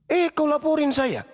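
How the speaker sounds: sharp high cry of outrage; outraged exclamation. Real, not acted. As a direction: pitch jumps high in indignant outrage. Outraged rant at accuser.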